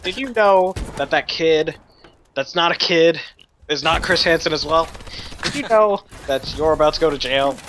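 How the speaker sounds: low, emphatic TV interrogator parody; Chris Hansen. Acted. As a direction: confront him like a solemn host. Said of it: "have our own Chris Hansen show".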